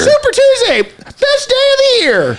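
very high, slow, ecstatic yell; over-the-top celebration cry; hype shout. Acted. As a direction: belt it like the best party ever. Hyping up Mardi Gras.

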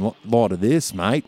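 Aussie accent through a blocked nose; stuffed-nose Australian accent. Shown as a demonstration. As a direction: do Australian as if congested. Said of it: "stuffed nose kind of thing with the Australian accent".

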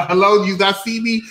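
snippy put-upon cashier; rude clerk impression. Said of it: "they're like".

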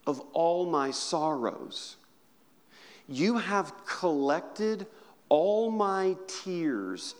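slow, tender scripture reading. Acted. Preacher reading Psalm to hurting congregation, slow and tender.

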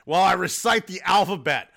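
put-on gruff old man threat, building to a shout; Macho Man voice. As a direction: growl it like a wrestling promo, then yell. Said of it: "as fucking Space Ghost's dad".

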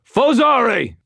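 loud, high snarled battle cry. Acted. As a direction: snarl it out like hurling a spell. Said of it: "and snarled".

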